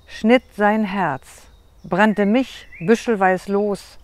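measured poetic delivery, pausing after each phrase; poem recitation. Shown as a demonstration. Poet recites her love poem to the interviewer, measured recital. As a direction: recite it line by line, building firmer, then settling at the end. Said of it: "wenn du mir mal was vorträgst".

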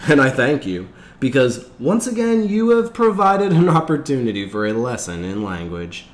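high, loud teacher's pronouncement; smiling instructor. A narrator's reading. The instructor thanks Asher before the class, smiling and emphatic. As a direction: address the class grandly, with a smile. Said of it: "He was smiling".

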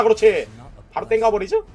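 normal talking voice

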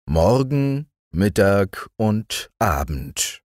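slow, wistful narrator; slow narration. A narrator's reading. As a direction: let the words linger. Narrator slowing.

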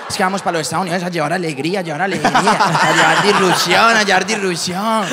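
rápido y luego lento, fuerte; entusiasmo exagerado. Retold or imitated. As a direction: anuncia con fervor desmedido. El amigo imitado ante la cónsul. (amigo hablándole eufórico a la cónsul)

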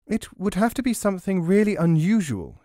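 lightly voiced scheming crone; old crone voice. A narrator's reading. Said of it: "she said".

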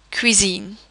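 cuisine with the C as a K; hard C. Shown as a demonstration. Teacher giving an example, cuisine with hard K sound. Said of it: "a C would be pronounced as a K".

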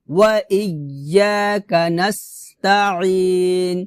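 measured chanting for students to repeat; Quran recitation demo. Shown as a demonstration. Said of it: "আমার সাথে বলেন".

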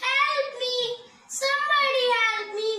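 high-pitched, mild shout; acted cry for help. Trapped lion calling for anyone, high mock shouting. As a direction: call out for rescue without full force. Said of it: "The lion shouted".

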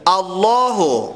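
الله said slowly with a full thick lam; slow demo of الله with emphatic lam; heavy lam. Shown as a demonstration. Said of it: "لام اسم الله پر یا باریک؟".

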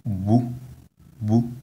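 bou short, with high pitch on the vowel; bou, crisp high-toned syllable. Shown as a demonstration. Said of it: "high tone on the vowel u".

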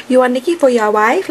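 attempted Jamaican accent; a rapper. Fan quoting a rapper's line in an imitated Jamaican accent. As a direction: mimic a West Indies lilt, not quite managing it. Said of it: "she's talking like that".

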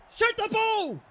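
high, loud command; exasperated shout. Real, not acted. Gamer ordering his striker to shoot, exasperated shout. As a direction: yell it at the screen.

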